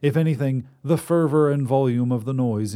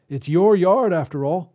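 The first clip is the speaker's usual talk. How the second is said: put-on higher reedy old man's voice; reedy old wizard; 8 semitones higher, 6 dB louder than usual. Wizard voice held.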